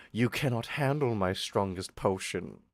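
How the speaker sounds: low, quiet proud merchant; lightly voiced gruff merchant; gruff proud merchant pitch. Potion seller's reply.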